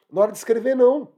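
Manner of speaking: NÃO punched high and loud; emphatic no. Real, not acted. Teacher insisting on não to the class, pitched high and loud. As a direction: slam the door on the idea with não.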